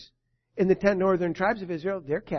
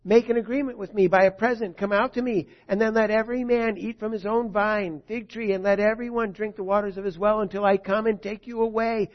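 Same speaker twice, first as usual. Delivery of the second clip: higher and louder, a herald's cry; loud proclamation; 3 semitones higher, 4 dB louder than usual. Acted. Rabshakeh crying out to the people of Jerusalem, loud proclamation. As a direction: call out to the walls of the city. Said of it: "Rabshakeh cried with a loud voice".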